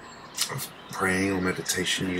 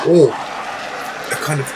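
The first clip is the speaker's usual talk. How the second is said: words stretched slow through a yawn; slow, loud, high words dragged out by a yawn; 7 semitones higher, 8 dB louder, much slower than usual. Real, not acted. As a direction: talk through a big yawn. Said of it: "pardon me, I was yawning".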